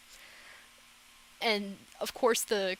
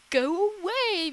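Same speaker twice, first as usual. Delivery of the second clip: high, louder, drawn-out mock yell; imitated scream; 10 semitones higher, 5 dB louder than usual. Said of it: "she has to scream it at him".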